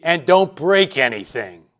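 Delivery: a parent's firm parting warning, lightly acted; emphatic parental command. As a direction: stress BREAK as a last instruction. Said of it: "one command ... that's emphasized".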